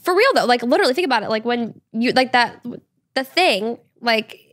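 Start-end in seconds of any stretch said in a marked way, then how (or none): 4.0-4.5 hushed whisper aside. Real, not acted. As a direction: whisper it like a secret. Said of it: "I can talk about this on your podcast".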